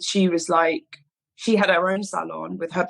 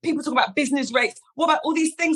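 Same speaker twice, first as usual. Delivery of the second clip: mock nervous; 7 semitones higher, faster than usual. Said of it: "and I start freaking out".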